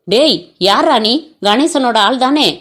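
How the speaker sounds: flaring up. Acted. Nila snapping at the caller she suspects, slow mild anger. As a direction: spit the words out slowly in restrained fury. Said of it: "வெகுண்டு".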